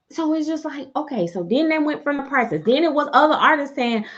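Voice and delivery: ordinary delivery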